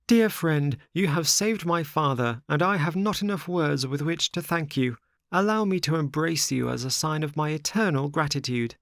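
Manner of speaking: put-on high, earnest young puppet; high-pitched, formal gratitude; grateful Pinocchio. A narrator's reading. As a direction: give heartfelt thanks in a high voice. Pinocchio thanks the tunny.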